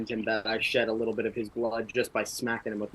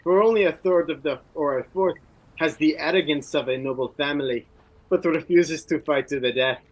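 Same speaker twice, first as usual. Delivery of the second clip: higher, louder scornful taunt; mocking warrior; 6 semitones higher, 7 dB louder than usual. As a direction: insult his lineage with scorn. Brynjar mocks the Marquis.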